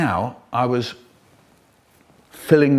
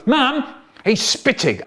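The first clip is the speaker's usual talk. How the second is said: calling for mum; 10 semitones higher than usual. Acted. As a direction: yelp for mum like a hurt kid. Brother calls for mum.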